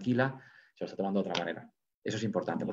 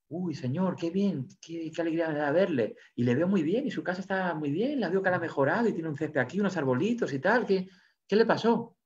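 higher, delighted amazement; surprised; 6 semitones higher than usual. Acted. Discípulo al anfitrión, al ver la casa mejorada: sorpresa alegre y aguda. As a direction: greet him like you can't believe your eyes. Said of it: "se queda sorprendido y le dice".

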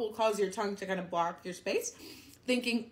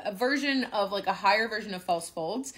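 normal talking voice

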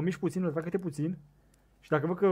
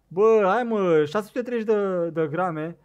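loud exclamation; 2 semitones higher, 7 dB louder, slower than usual. Real, not acted. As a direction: cry out the weight, stretching it. Reads the fish's weight.

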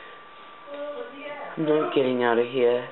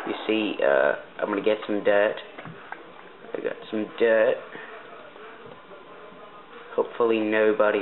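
practised, put-on British accent; Canadian trying on British English. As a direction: speak in an amateur British accent. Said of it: "I just like to speak like this".

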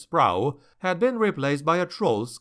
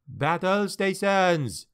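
called order; 5 semitones higher, slower than usual. Acted. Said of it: "called Doucette".

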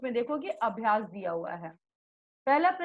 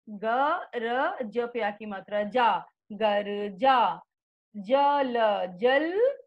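spelling out letter by letter. Shown as a demonstration. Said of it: "इस तरह से आप बोल, बोल करके पढ़ोगे बच्चों".

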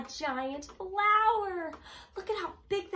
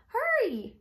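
urgent cry; 10 semitones higher, 5 dB louder than usual. A narrator's reading. Narrator urges the tiny seed.

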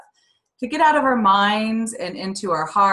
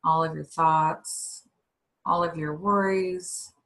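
slow, measured breathing-exercise guidance; guided meditation; slower than usual. Real, not acted.

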